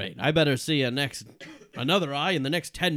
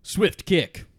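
barked command; 4 semitones higher, 7 dB louder than usual. Acted. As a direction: punch out each word like a martial arts call. Kick-doctor gives a sharp command.

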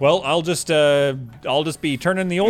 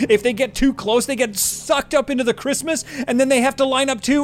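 panicked; 6 semitones higher than usual. Acted. Panicked plea for help.

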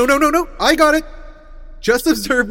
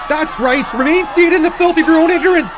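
higher, louder scornful yell; contemptuous shout; 7 semitones higher, 8 dB louder than usual. Acted. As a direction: spit out contempt at the crowd. Insulting the crowd.

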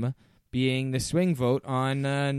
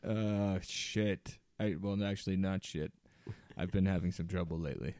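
lightly voiced Boston accent, sheepish; a hint of Boston Rob, embarrassed; 4 semitones lower, 5 dB quieter than usual. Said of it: "now talk about being constipated".

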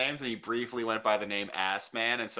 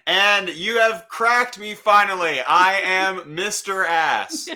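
loud slow confession; 7 semitones higher, 8 dB louder, slower than usual. Pretend. Pretend torture confession.

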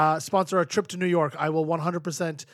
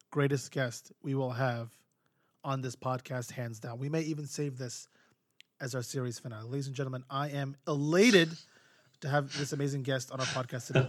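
hushed announcer; 4 semitones lower, 7 dB quieter than usual. Acted. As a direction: build the suspense quietly. Announcer build-up of the guest.

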